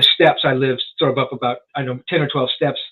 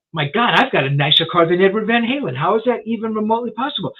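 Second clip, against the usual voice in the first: higher-pitched retold disbelief; incredulous; 6 semitones higher than usual. Guest recalls comparing cars with a rock guitarist, incredulous. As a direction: marvel in mock disbelief, voice lifting. Amazed at his own nicer car.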